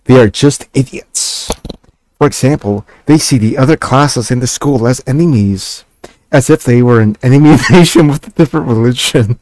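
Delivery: lightly voiced stubborn girl; mildly resolute young girl reading; determined voice. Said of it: "she says with a determined voice".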